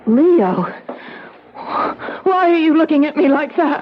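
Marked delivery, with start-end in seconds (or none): 1.5-3.8 frightened plea. Acted. Wife afraid he'll kill her.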